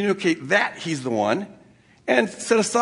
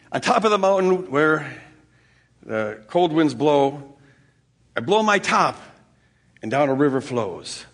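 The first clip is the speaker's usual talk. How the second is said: rhyming riddle; 4 semitones lower, slower than usual. Retold or imitated. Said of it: "I give her a riddle".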